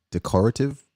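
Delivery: decorative said like decor, de-COR-ative; stress on second syllable. Shown as a demonstration. Host asking viewers how to say decorative, stressed de-COR-ative. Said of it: "How do you say that".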